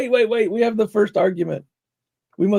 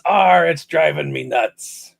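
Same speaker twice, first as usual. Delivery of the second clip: pirate voice; slower than usual. Pretend. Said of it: "quick pirate dad joke".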